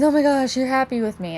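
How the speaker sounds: delighted dog's thought. Acted.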